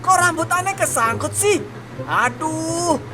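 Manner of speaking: high panicked yelps and cries; flustered hammed-up panic when something gets caught; high squealing fright with a whimper; panicking.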